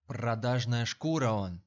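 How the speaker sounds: loud contemptuous spit of words; angry outburst. A narrator's reading. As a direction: bark it out in disgust. Savva curses the traitor. (гневно, громко)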